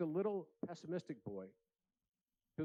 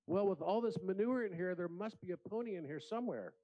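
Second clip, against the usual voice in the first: put-on eager child; 5 semitones higher than usual. Optimistic boy's punchline.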